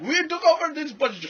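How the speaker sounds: high, loud mock takeover announcement; mock hijacker claiming the bus, high and loud. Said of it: "Iran or something".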